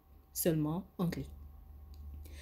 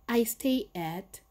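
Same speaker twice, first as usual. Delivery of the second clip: slow model answer; 3 semitones higher, 3 dB louder, much slower than usual. Shown as a demonstration. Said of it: "models answer slowly".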